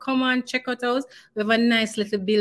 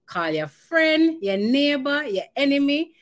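each item pitched up high and punchy; excited list; 7 semitones higher, 3 dB louder than usual. Real, not acted. Host urges listeners to call everyone, excitedly. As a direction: build it up, friend, neighbour, enemy. Hyping listeners to spread word.

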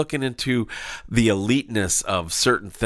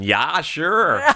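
higher, mock Minnesota accent; 5 semitones higher than usual. Shown as a demonstration. Co-host showing the accent that pops out, mock Minnesota accent. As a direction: play up a sing-song Minnesota "sure". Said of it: "it's that Minnesota accent".

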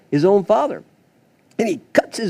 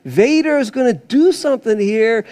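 sudden realization; 6 semitones higher than usual. Retold or imitated. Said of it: "you're wondering".

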